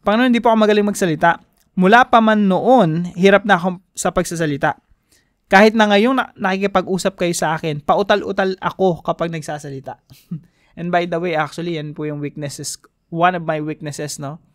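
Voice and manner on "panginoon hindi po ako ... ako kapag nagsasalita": loud, fast, pleading excuse; pleading Moses. Acted. Moses begging the Lord not to send him, loud and pleading. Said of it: "sabi ni Moses dito".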